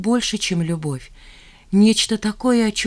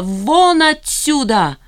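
loud, slow shout with a higher pitch; 8 semitones higher, 5 dB louder, much slower than usual. A narrator's reading. Jeanne throws the guest out, slow and loud. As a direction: drive him out of the flat with a shout. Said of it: "закричала Жанна".

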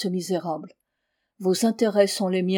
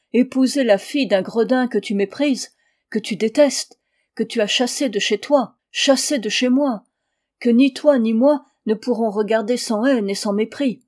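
indignant refusal; 2 semitones higher, 4 dB louder than usual. Acted. Father rejects marrying scoundrel's daughter.

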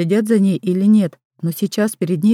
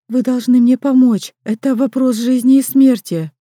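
louder desperate insistence; urgent plea; 5 semitones higher, 5 dB louder than usual. Acted. Girl in labour pleading with the midwife, desperate and loud. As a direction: beg with life at stake.

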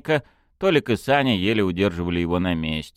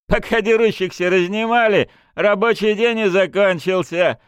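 laughing; 13 semitones higher, 6 dB louder than usual. A narrator's reading. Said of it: "засмеялся Фёдор".

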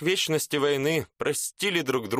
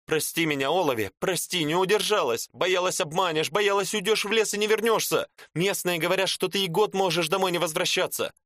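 pleading woman; 7 semitones higher than usual. Acted. Woman begs forgiveness, voiced higher.

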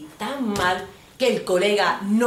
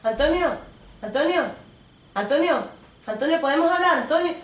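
calling out; 9 semitones higher, 3 dB louder than usual. Acted. Calling to boyfriend in club.

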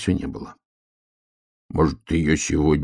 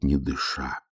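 plain reading voice

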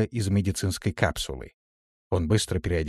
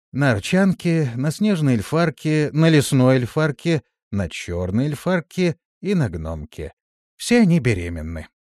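ordinary delivery, nothing marked

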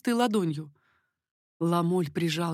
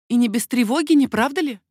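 higher, louder sly question; teasing; 5 semitones higher, 9 dB louder than usual. A narrator's reading. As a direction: needle him lightly. Queen teasing the king.

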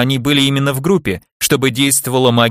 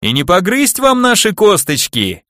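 teasing; 7 semitones higher than usual. Acted. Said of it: "передразнивая обиженных на весь свет скелетов".

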